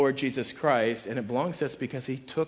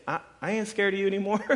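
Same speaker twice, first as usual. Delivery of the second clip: quick, higher defiant boast; trash talk; 7 semitones higher, faster than usual. Acted. Preacher voicing Paul to death, trash talk. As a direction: brag that you are unafraid. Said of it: "here's where he gets the trash talk".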